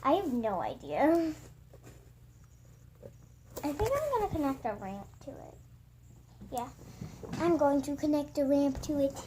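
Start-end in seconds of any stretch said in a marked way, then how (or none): 3.6-5.5 quick, tentative musing with a final rise. Real, not acted. Vlogger weighing the next craft step, tentative. Tentative plan, then confirmed aloud. 7.4-9.2 firm, even statement of the plan; decided. Real, not acted. Vlogger confirming the craft plan to viewers, decided.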